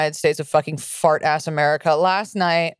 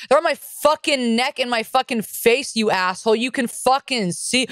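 higher, irritated comeback to a heckler; retold yelling back; 5 semitones higher than usual. Comic answering a heckler from the stage, higher mock yell. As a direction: re-enact yelling back without full volume. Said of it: "And I yell back at him".

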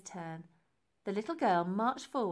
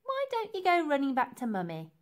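higher mocking taunt, sliding down; scornful, pitched-up teasing; sneering; 6 semitones higher, 4 dB louder than usual. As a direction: jeer it as if at a baby. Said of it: "sneered Nellie".

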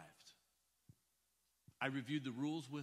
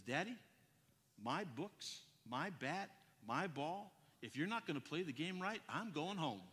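put-on disgusted child; 3 dB quieter than usual.

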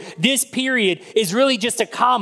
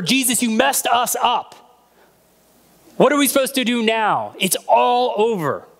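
despairing outcry; 3 semitones higher than usual. Acted. The grieving sisters blaming Jesus, in a hammed-up shout. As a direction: cry out that all is lost.

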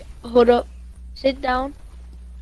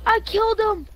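excited callout; 9 semitones higher, much faster than usual. Real, not acted. Spotting and shooting an enemy.

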